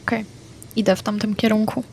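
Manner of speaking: usual speaking voice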